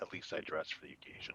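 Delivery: hushed, whispered mutter under the breath. Playing a character who mutters a jab as another passes: muttered under the breath. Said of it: "under my breath go".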